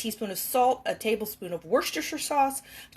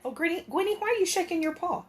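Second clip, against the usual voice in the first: higher fond voice for the cat; pet talk; 6 semitones higher than usual. Real, not acted. Owner fussing over her cat's paw, high pet talk.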